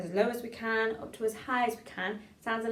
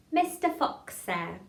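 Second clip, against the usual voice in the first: tongue-twister demo; 3 dB louder, slower than usual. Shown as a demonstration. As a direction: model the line for a class to repeat. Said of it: "Try say that".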